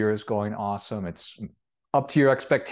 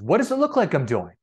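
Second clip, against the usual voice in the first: angry retort; 5 semitones higher, 4 dB louder than usual. Acted. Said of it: "like, angrily says".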